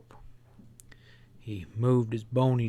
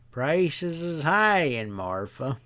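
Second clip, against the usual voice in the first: placid drawl; 3 semitones higher, slower than usual. Acted. Stableman unbothered by glaring Ezra, placid drawl. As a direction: drawl it out like nothing could bother you.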